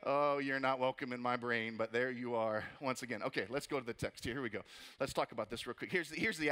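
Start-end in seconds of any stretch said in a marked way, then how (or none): 0.0-3.2 weary groan. Pretend. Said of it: "you're like".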